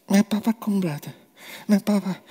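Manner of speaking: put-on quick, worried little boy's voice; panicky child. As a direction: rush it like a scared child. Lucas hears father coming. (angstig kinderstemmetje, snel)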